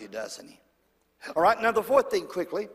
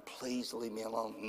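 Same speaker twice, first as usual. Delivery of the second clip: mild pleading; 9 semitones lower, 12 dB quieter than usual. Pretend. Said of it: "you'll be going".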